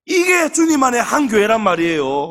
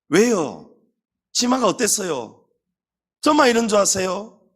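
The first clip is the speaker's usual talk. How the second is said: defiant talk-back; 3 semitones higher than usual. Retold or imitated. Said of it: "이러면서 치리를 안 받습니다".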